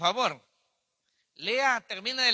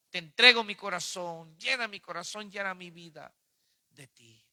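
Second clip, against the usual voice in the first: model prayer. Shown as a demonstration. Preacher giving listeners words to say to Jesus, prayerful. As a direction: lead a prayer for others to follow, fading at the end.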